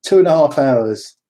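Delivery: lightly hammed-up Japanese accent; put-on Japanese accent. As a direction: do the midwife's reply with a mock Japanese accent. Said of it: "have to do the accent".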